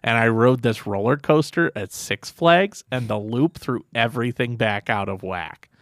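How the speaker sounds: flat, droning run-on monotone; one long monotone ramble without pauses. Retold or imitated. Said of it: "in that monotone voice".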